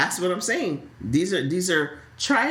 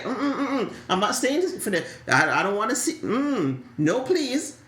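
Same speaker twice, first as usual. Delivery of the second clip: imitating Diane fleeing; 5 semitones higher than usual. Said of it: "She's like".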